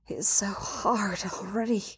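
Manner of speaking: soft whispered dialogue; intimate whisper. A narrator's reading. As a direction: whisper it close, just for the partner. Intimate murmured line in love scene.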